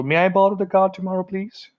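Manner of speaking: politely ask, softening on the final please; polite request. Shown as a demonstration. Asking dad for the car for a party, politely. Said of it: "Polite request".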